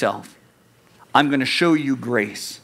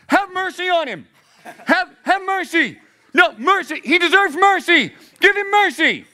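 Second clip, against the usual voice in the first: much higher, hammed-up plea for mercy; mock bystander; 14 semitones higher than usual. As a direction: play a prissy onlooker begging. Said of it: "people stood around and went".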